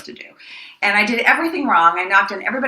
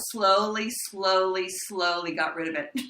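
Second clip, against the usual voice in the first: gradually fading; 8 dB quieter than usual. Real, not acted. Acts out gradual loss of accent.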